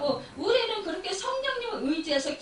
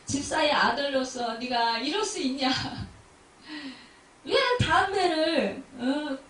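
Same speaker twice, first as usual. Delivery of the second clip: mother scolding. Retold or imitated. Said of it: "그러면서 막 속상해 하시는 거예요".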